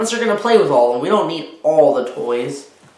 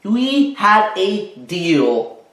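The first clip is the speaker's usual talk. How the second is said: louder, slow, stern reproach; upset mother; 4 semitones higher, 4 dB louder, slower than usual. Acted. Mother scolds Spencer for the messy pile, louder and slow. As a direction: spell out the broken deal slowly. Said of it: "she screamed".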